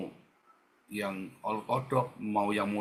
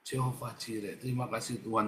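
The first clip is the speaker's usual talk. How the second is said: quiet thanks; 2 semitones lower, 6 dB quieter than usual. Pretend. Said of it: "kamu bilang".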